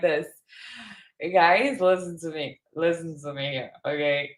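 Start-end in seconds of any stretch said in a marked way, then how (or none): 1.3-4.3 lightly voiced pleading defendant; mock the excuses, half-hearted drama; a hint of a desperate accused; mock Sarah Boone. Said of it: "imagine if I'm doing a Sarah Boone video".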